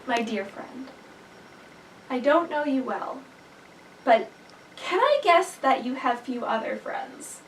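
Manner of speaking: soft, calm, kindly; gentle horse. Acted. Horse calmly reassures the frightened bird, soft and gentle. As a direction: speak gently like a patient friend. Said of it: "the horse says to the bird".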